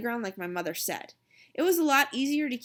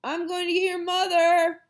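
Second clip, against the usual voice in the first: put-on higher, loud boy's call; hollered; 8 semitones higher, 5 dB louder than usual. A narrator's reading. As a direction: holler it while running off. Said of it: "Jimmy hollered".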